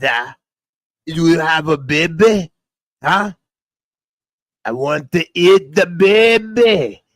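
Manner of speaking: loud, hammed-up baby-eater voice; put-on character impression. Comedian imitates a character from a show craving a baby, hammed-up voice. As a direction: play a hungry character, swinging up and loud. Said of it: "another impression that I was doing".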